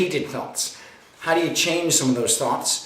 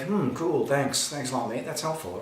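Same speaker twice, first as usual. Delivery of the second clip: centered, unruffled; 6 dB quieter than usual. Acted. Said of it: "they stay centered".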